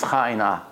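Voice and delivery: "ha and ah" from the throat; throaty "ha" and "ah"; deep guttural "ha and ah"; guttural letters. Shown as a demonstration. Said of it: "they don't also speak like this".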